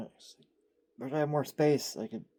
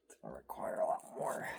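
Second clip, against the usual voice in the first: ASMR whisper; 10 semitones lower than usual. Real, not acted. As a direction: whisper it close to the mic. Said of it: "Not doing good in the A S M R voice".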